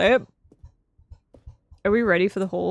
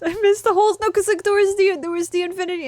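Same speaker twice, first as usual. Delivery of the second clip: laughing lament; 8 semitones higher, faster than usual. Real, not acted. Streamer laughs at missing the holes. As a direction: laugh through the complaint.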